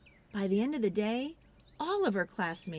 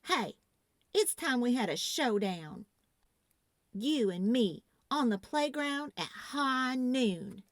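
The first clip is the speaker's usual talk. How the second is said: showdown challenge; 4 semitones higher than usual. Acted. Alice challenges Lexus to showdown.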